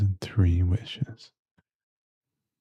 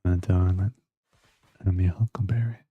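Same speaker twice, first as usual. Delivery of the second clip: put-on American Southern accent. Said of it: "I've got a good American accent".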